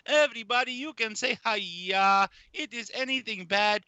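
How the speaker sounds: imitating Uncle Roger's Malaysian-Chinese accent; Uncle Roger impression. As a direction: preach "hiya" like Uncle Roger. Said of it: "He encourages everyone to say".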